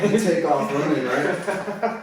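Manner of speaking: can't hold back the laugh while telling it. Real, not acted. Laughing as he tells a friend about the chase.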